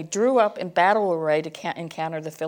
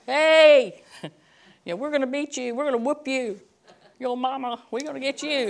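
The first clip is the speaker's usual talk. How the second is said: put-on kids yelling taunts; 6 semitones higher than usual. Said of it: "they were yelling across the room".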